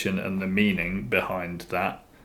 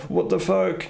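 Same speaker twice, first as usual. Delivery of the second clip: high, shocked what the fuck; shocked outburst; 9 semitones higher than usual. Retold or imitated. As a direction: blurt it out in disbelief. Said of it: "Instead of going".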